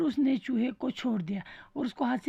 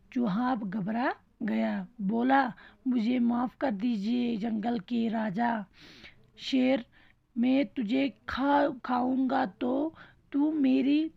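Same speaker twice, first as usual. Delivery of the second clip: slow reading aloud. Shown as a demonstration. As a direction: read it out slowly and gently. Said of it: "एक बार फिर से पढ़ती हूँ।".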